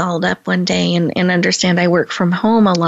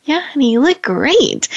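higher, dutiful yeah honey; imitating husband's dutiful reply; 7 semitones higher than usual. Host imitates husband's automatic compliment, dutiful. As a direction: humour her on autopilot. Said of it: "He said".

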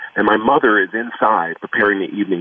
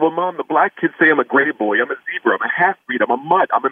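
lightly voiced upset child, pitched higher; a hint of a hurt young boy begging for answers; child pleading; 5 semitones higher than usual. Young son pleading with mom about race, higher.

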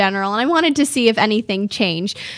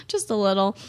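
laughing echo; 5 dB quieter than usual. Real, not acted. Host echoing the listener's tease, laughing. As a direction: repeat it through a real laugh. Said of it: "repeats own quote laughing".

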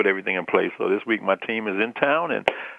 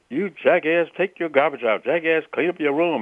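father yelling; 6 semitones higher than usual. Retold or imitated. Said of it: "His father kept telling him".

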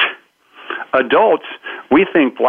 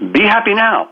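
higher-pitched, emphatic urging; mock exhortation; 8 semitones higher than usual. Speaker advising a needy complainer, emphatic urging. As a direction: push the advice at a hopeless complainer.

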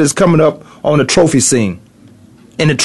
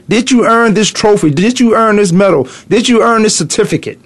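higher, pressing did you earn this; challenging questions; 6 semitones higher than usual. Acted. Father pressing his boys on whether they earned it, pitched up.

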